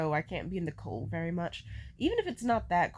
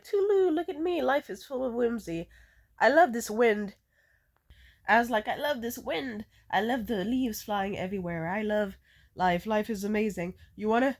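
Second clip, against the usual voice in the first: carefree whimsy; 3 semitones higher than usual. Retold or imitated.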